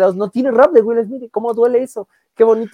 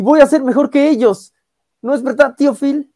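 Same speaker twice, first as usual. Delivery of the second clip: higher-pitched mock-hurt pleading; retold tearful plea; 6 semitones higher than usual. Will to tío Phil before crying, higher hurt pleading. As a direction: act out a wounded son's plea, no real sobs. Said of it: "Y ya llora en el".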